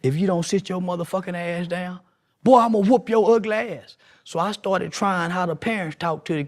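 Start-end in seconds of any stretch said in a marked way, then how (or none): 0.0-4.0 scolding mama. Retold or imitated. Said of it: "how they mamas come in and talk".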